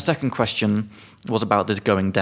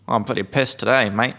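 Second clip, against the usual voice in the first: a light Australian accent, lightly put on; a hint of an Aussie bloke. Teacher giving a drunk example, light Australian accent. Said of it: "just immediately go to an Australian accent".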